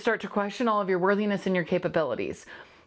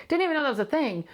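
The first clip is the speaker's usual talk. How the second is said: much higher, peaking on Didn't; mock amazement at herself; amused disbelief; 6 semitones higher, faster than usual. Real, not acted. Host to listeners, amused disbelief.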